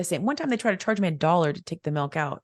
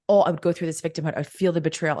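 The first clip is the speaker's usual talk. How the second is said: usual speaking voice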